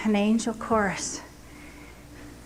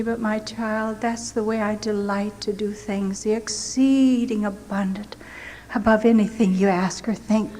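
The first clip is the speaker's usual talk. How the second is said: sweet, gentle voice of the Lord. Retold or imitated. The Lord gently reassuring the starving prisoner, tender. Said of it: "So sweetly the Lord said to me".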